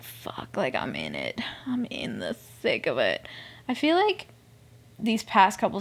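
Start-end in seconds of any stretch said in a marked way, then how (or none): 0.0-3.3 low, half-whispered admission; hushed realisation. Retold or imitated. Fan admitting she is hooked on the show, hushed. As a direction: drop low and soft, nearly voiceless.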